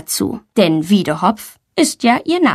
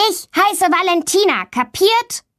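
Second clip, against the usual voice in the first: indignant retort; 10 semitones higher than usual. A narrator's reading. Valentina shoves Tommy and corrects her name, indignant. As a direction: set him straight, pitch climbing at the end. Girl confronts boy who teased her.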